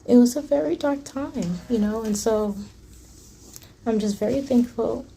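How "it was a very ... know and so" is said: emotional. Real, not acted. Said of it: "I get really emotional thinking about it".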